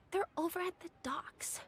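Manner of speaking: hushed whisper, barely voiced. Girl whispers to Auntie Ningguang where the men wait, whispering. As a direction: breathe it like a secret. Child revealing a secret location.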